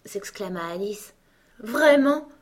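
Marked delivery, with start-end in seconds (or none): 1.6-2.3 high, loud pitying question. A narrator's reading. Queen to a disbelieving Alice, pitying. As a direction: ask it with exaggerated pity, pitched up. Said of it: "dit la reine d'un ton de pitié".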